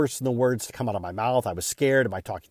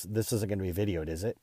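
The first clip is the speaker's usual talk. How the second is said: quiet worried question; 3 semitones lower, 8 dB quieter than usual. Retold or imitated. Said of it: "He goes".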